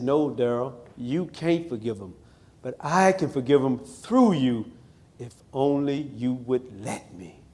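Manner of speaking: hushed and soft, slowing at the end; soft inner voice. Retold or imitated. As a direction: murmur it gently like a voice in his spirit. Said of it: "something whispered to me in my spirit".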